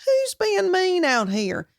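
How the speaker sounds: high, slow, bewildered question; puzzled wonder. Retold or imitated. Puzzled about Malibu locals, high and slow. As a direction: wonder aloud in mock disbelief. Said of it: "And I thought".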